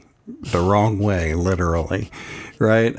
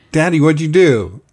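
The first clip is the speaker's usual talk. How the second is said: lightly voiced child, higher and louder; child's question; 7 semitones higher, 5 dB louder than usual. Son asks Daddy what he did, lightly imitated child's question. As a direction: imitate a kid questioning Dad, pitch lifted. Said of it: "Yeah, he said".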